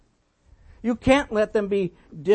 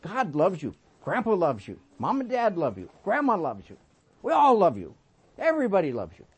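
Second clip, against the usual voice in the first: reassuring grandpa; 3 semitones lower than usual. Retold or imitated. Grandpa comforting hurt grandson.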